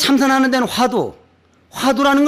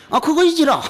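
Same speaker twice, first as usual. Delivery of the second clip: badly imitated Jeolla dialect, higher; clumsy Jeolla dialect; 5 semitones higher than usual. Monk mimicking the Jeolla man's agreement, clumsy Jeolla dialect. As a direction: mimic an amusing Jeolla speaker. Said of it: "그 사람은 재밌게 하던데 내가 그 말을 잘 못해".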